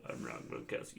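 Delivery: very soft, toneless impression; hushed mock-athlete aside; Rob Gronkowski. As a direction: barely voice it, as a simple jock. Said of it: "I love that Rob Gronkowski".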